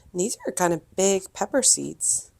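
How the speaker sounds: squeaky voice from a head cold. Real, not acted. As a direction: speak through a cold, slightly squeaky. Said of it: "Sorry if my voice is squeaky, I have a cold".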